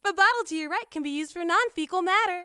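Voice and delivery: high, even, precise machine voice; lightly robotic assistant voice; android. Acted. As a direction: speak like a polite ship android. Android character voice.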